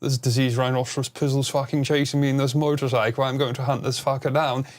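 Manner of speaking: lightly put-on posh English voice; a hint of a posh English gent hunting someone down; posh English gentleman accent. Shown as a demonstration. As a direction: play a hammed-up English toff on the mic. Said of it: "does the posh English gentleman accent".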